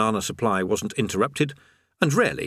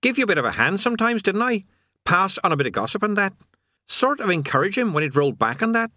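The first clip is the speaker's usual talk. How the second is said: fast, higher aggrieved demon; sullen indignant demon; 7 semitones higher than usual. A narrator's reading. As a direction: nostalgic put-upon grumble. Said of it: "its voice raw with sullen indignation".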